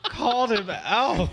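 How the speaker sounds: high, loud words through laughter; cracking up while talking, drawn out; helpless laugh running through it. Real, not acted. Laughing at a shout-out.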